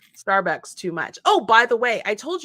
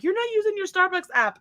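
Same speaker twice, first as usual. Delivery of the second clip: higher, lightly voiced son complaining; scolding teen; 8 semitones higher than usual. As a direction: nag like an annoyed teen. Quoting son scolding mom.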